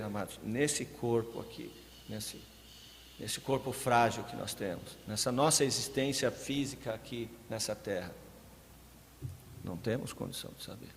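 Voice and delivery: ordinary talk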